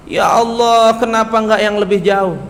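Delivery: loud cry of Ya Allah, pleading; dying man's cry. Acted. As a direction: call out to God as if dying. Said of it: "dia teriak". (teriakan orang sekarat, keras)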